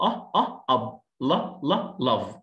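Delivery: "أب، لاف" with a short uh vowel; short U sound. Shown as a demonstration. Teacher sounding out words for students, short uh. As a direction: repeat short "أه", then build "أب" and "لاف". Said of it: "تنطق أه".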